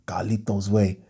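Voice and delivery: "Carlito's" repeated low, showing it off; showy pronunciation. Shown as a demonstration. Showing viewers how he said Carlito, showy pronunciation. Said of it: "You like the way I said Carlito".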